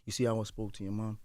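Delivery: measured fatherly explaining; calm, unraised voice. Acted. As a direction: talk it through without raising your voice. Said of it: "I don't gotta raise my voice".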